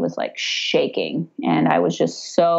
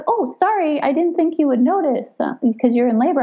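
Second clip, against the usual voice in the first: apologetic nurse; 9 semitones higher, faster than usual. Retold or imitated. Nurse apologizing, voiced high.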